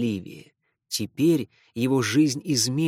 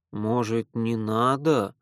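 hesitant; 3 semitones lower, slower than usual. Acted. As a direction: trail off uncertainly. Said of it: "неуверенно начал Рахи".

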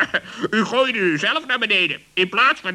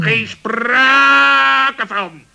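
very slow, louder firm refusal; flat refusal; 3 semitones higher, 5 dB louder, much slower than usual. Acted. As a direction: drag out the refusal, no discussion. Refusing fourth bedroom.

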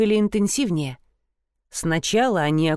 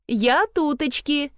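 slow, high cheerful call from afar; cheerful call from the hallway; 6 semitones higher, slower than usual. A narrator's reading. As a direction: sing it out brightly from the corridor. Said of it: "весело донеслось из коридора".

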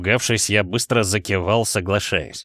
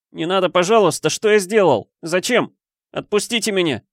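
wailing plea; 8 semitones higher than usual. Acted. Boy begs his captor not to tie him. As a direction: plead in terror like a child. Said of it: "Запричитал я".

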